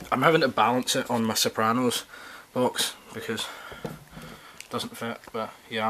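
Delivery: breathless, short of air; out of breath. Real, not acted. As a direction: talk while winded. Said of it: "I'm out of breath".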